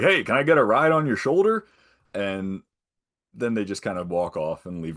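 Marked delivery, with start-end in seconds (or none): 0.0-1.7 high, loud, playful ask; cheeky request. Retold or imitated. Character asking a favour, high and cheeky. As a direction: pitch it up and beg for a piggyback. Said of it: "he's like".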